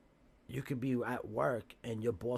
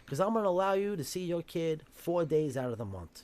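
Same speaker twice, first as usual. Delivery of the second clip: loud, much higher taunting judge; mocking shout; 6 semitones higher, 7 dB louder than usual. Mimicked judge shouting at the father to be happy. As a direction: yell the ruling like a gloating judge.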